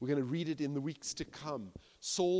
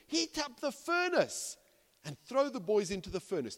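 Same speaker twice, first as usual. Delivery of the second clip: infuriated king; 7 semitones higher than usual. Acted. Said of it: "The king's infuriated".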